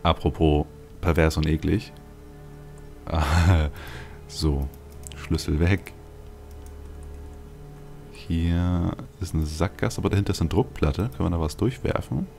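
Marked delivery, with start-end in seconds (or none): none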